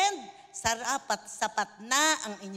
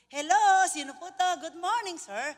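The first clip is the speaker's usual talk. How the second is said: sweet polite greeting; 4 semitones higher, 5 dB louder than usual. Retold or imitated. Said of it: "sweet ako kasi".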